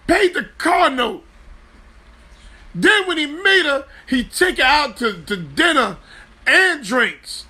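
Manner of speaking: high, laughing disbelief at the story; cracking up while telling how he paid the car note; excited laughing retelling. Real, not acted. To listeners about Mo Stroller, high laughing disbelief.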